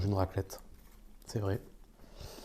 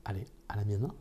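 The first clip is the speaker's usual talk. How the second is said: whispered toast; 3 semitones lower, 10 dB quieter, faster than usual. Real, not acted.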